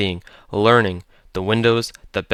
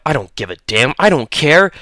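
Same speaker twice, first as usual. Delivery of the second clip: defiant shout; 4 semitones higher than usual. A narrator's reading. Leo shouting back at Holloway in defiance. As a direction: yell back in stubborn defiance. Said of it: "he shouted back, voice cracking".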